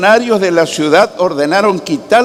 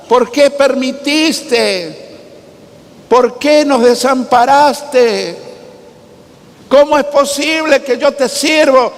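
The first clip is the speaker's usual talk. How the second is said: mock tearful lament; 5 semitones higher than usual. Preacher imagining us crying to God in the stocks, pleading. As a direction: plead like a despairing prisoner, lightly acted. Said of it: "hubiésemos estado llorando en el cepo".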